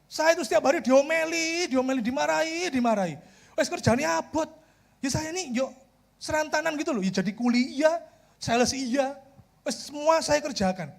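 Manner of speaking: acted-out moaning about the boss; imitated grumbling. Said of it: "Teman saya ini ngomel ya".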